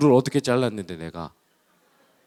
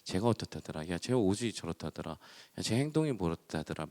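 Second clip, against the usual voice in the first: hushed gossip, much softer; 6 semitones lower, 10 dB quieter than usual. Retold or imitated. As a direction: lean in and spread gossip quietly. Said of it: "누군가의 험담하는 건". (속삭이듯 소곤소곤 험담하는 말투)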